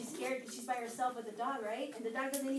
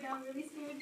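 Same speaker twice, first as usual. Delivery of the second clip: fading fear. Retold or imitated. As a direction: let now I'm really scared sink away. Repeat, dropping away.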